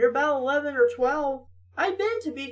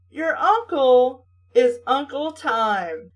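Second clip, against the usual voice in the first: amused disbelief; 4 dB louder, slower than usual. Real, not acted. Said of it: "That is a brilliant mistype".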